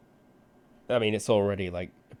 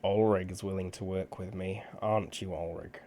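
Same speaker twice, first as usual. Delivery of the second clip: put-on nasal English accent. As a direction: talk through the nose, English accent. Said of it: "Going to English nasal voice".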